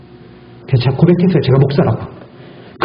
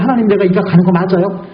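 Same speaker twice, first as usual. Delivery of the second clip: retold prayer; 5 semitones higher than usual. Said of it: "라고 제가".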